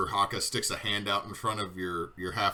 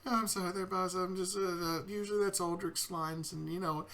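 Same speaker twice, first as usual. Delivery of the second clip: Kiwi voice; 9 semitones higher, 6 dB quieter than usual. Acted.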